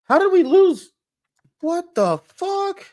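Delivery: high, loud, stretched-out disbelief; raging gamer. Real, not acted. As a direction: scream at the screen in outrage. Gamer loses the match.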